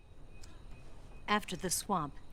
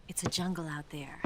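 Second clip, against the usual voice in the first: whisper; 2 semitones lower than usual. Acted. Soft warning about the jungle.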